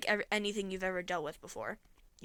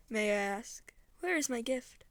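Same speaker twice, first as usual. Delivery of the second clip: lightly voiced condescending deity; soothing but threatening. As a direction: pity a feeble human with a hint of menace. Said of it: "soothing, in a threatening sort of way".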